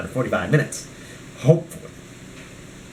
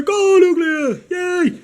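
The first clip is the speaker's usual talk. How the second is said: cheering; much slower than usual. Pretend. Cheering on his Pokemon figure.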